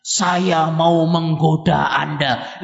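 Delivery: slow, drawn-out announcement as the devil; lightly acted slow devil. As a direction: draw it out like a mock devil. Devil announces its temptation in sermon.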